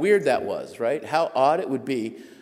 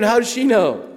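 high, loud startled cry; shocked disbelief; 10 semitones higher, 10 dB louder than usual. Retold or imitated. Writer stunned that the secretary knows. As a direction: blurt it out in alarm.

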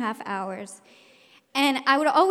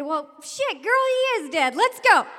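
blunt teacher; 8 semitones higher, 4 dB louder than usual. Retold or imitated. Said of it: "he said".

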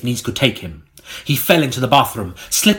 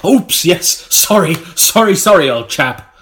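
sheepish; 6 semitones higher, 6 dB louder than usual. Real, not acted. Apologizing loudly to colleague.

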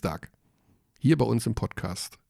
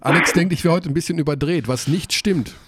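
too much caffeine. Real, not acted. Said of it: "Er hat zu viel Kaffee getrunken".

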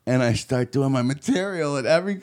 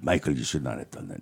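much lower, softer scolding; stern mentor; 11 semitones lower, 6 dB quieter than usual. Retold or imitated. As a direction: scold him quietly like a disappointed mentor. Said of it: "he's like".

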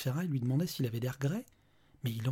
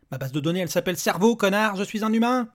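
louder, higher, insulting retort; angry shout; 6 semitones higher, 8 dB louder than usual. Acted. Father yells at the robot, inches from its face. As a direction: spit it in his face.

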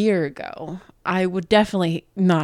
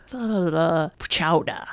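mock Boston accent; 2 semitones lower than usual. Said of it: "say it with the Boston accent".

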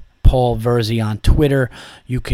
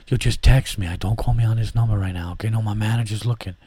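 quiet office phone whisper; hushed, manager nearby; work voice; 3 semitones lower, 4 dB quieter than usual. Shown as a demonstration. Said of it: "That's another one".

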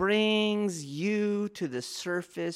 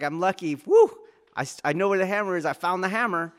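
mock relief; 3 semitones higher, 6 dB louder, faster than usual. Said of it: "You more go like".

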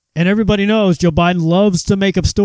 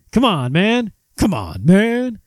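Biden impression; slower than usual. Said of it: "that's his favorite thing".

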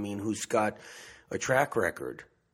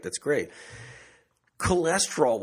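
ordinary talk

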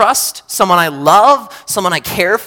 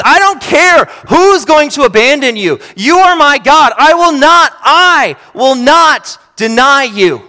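higher and louder, swearing loyalty; Peter's fierce vow; 6 semitones higher, 5 dB louder than usual. Retold or imitated. Peter swears to Jesus he will never deny him, loud and high. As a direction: declare it like an unbreakable oath.

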